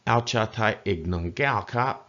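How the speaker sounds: "Ao cha Thai ik nung gao kap" with each tone marked; careful Thai tones. Shown as a demonstration. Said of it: "Remember your tones".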